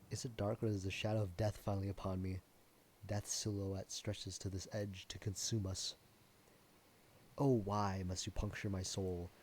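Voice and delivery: hammed-up doom of a stage tragedian; lightly voiced Shakespearean lament. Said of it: "we were speaking Shakespearean".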